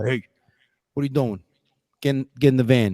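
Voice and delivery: heavy, thick put-on Brooklyn accent. Act out your dad calling you along on sales calls, imitating dad's thick Brooklyn accent. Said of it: "he was a real thick Brooklyn accent".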